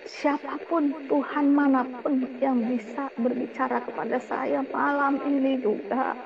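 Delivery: slow, worn-out plea, stammering on capek; beg, too tired to go on; exhausted plea. Retold or imitated. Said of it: "saya marah dan saya bilang".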